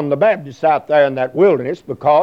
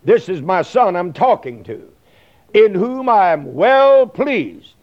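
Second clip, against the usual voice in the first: voice of God the Father; 3 semitones higher than usual. Retold or imitated. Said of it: "he was saying that".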